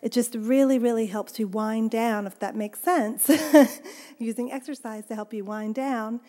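talking while walking on a stepper; slightly winded, breathing between phrases. Real, not acted. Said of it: "I sound a little bit out of breath".

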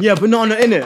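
high mocking voice; imitating the stranger. Retelling the stranger's banana line to friends, high mocking voice. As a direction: sing it up high, teasing. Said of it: "My mama's going".

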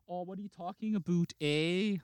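mock Canadian with a tagged-on eh; lightly imitated Canadian accent. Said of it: "unless they go".

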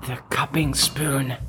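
ASMR whisper. Acted. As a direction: reverent hushed whisper. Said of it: "A S M R".

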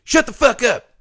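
high-pitched impression of an aggressive father; mock dad's yell. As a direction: act out a dad yelling at kids, pitched well up. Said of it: "he was yelling at".

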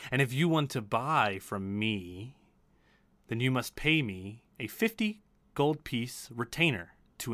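measured merchant with lilting emphasis; magical item broker. Acted. Broker explains her deals to customers, measured. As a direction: lay out your terms, savouring key words.

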